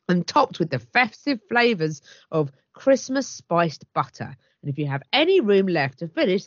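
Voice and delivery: lively, emphatic advert read; promotional read. Acted. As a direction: sell the festive box with relish. Reads out chef's promotional copy.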